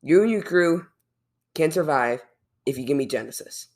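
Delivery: lightly voiced villain making an offer; a hint of a bargaining villain; Khan. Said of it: "you didn't like my Khan voice?".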